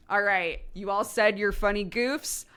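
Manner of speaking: put-on let's-move-on voice; brisk wrap-up. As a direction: imitate someone calling time on the joking. Acting out her cutting the banter short.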